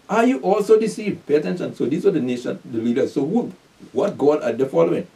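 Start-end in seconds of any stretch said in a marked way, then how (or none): 0.1-1.3 "Are you also deceived" pitched higher; emphatic repeat. Shown as a demonstration. Preacher repeats the Pharisees' question to his listeners, emphatically.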